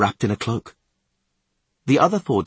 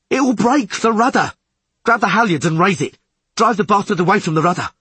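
high, loud, frantic commands; bellowed orders; 10 semitones higher, 6 dB louder than usual. A narrator's reading. Skipper ordering crew to save the rudder, frantic bellow. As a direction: bellow urgent orders over the chaos. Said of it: "Podlorak bellowed".

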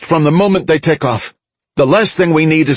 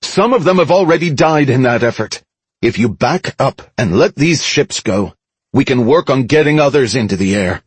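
higher-pitched, emphatic public appeal; firm crowd address; 7 semitones higher than usual. A narrator's reading. Mickey persuades the crowd to release the ships, firm address. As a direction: press the crowd firmly to give way.

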